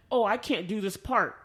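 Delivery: ordinary talk, nothing marked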